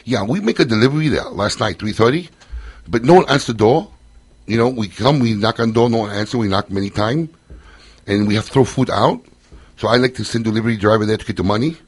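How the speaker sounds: lightly put-on Asian American accent, broken English. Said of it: "Asian American accent".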